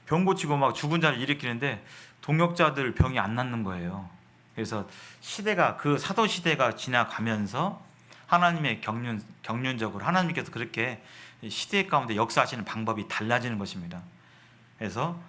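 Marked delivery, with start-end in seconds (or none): none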